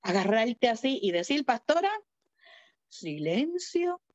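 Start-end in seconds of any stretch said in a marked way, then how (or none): 1.4-4.0 firm self-command. Acted. Commanding one's own mind.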